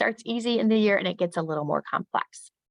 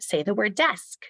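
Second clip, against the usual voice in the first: slow, higher classroom cue; teacher to class; 4 semitones higher than usual. Shown as a demonstration. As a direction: cue the class to repeat a word. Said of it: "ending sounds".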